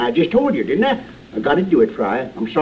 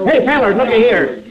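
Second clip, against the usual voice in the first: loud laughing call to the crowd; 5 semitones higher, 3 dB louder than usual. Acted. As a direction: crow about it, laughing. Laugh heard, triumphant call.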